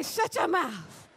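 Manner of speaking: slow, high laughing shout; playful disbelief. Shown as a demonstration. Teaching the congregation a slow, high, playful shout of disbelief. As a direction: drag it out in fun disbelief. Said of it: "You gotta say it just like that".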